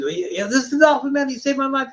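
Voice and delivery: high, gushing introduction; retold wife introducing the composer to her husband, high; excited wife.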